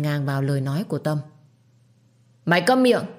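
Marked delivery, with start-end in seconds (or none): 2.4-3.0 snapping, a touch higher; angry. Acted. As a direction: silence her sharply. Wife cuts off the servant. (quát câm miệng)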